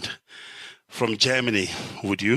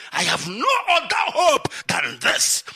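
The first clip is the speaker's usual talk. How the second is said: near tears; 5 semitones higher than usual. Real, not acted. Pleading for his cause.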